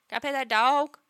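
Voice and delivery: lightly voiced child's plea; little girl asking. Imitating a little girl who sees a bear, asking hopefully. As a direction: ask like a small child, rising at the end. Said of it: "a girl who's, like, four or five".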